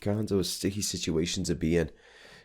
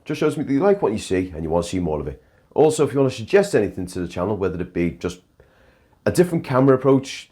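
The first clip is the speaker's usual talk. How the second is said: louder, brisk outro host, talking fast; Live Luke outro; 4 dB louder than usual. Acted. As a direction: pump up the sign-off like a live host. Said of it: "send you right now to Live Luke".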